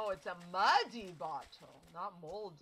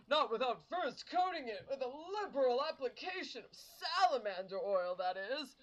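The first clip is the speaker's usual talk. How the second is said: lightly voiced grand, flowery gentleman; a hint of a self-important adventurer asking for oil; pompous gentleman Hildebrand; 2 semitones higher than usual. Gentleman asks companion to rub oil on him, lightly pompous.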